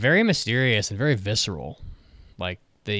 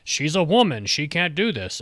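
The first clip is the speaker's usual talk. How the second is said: mocking quote; 5 semitones higher than usual. Reviewer mocking anime dialogue, higher sneering voice. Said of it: "how many times I had to hear".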